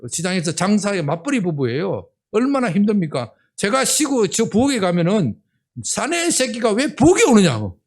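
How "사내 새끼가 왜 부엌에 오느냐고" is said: retold scolding. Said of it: "야단을 쳐버려요".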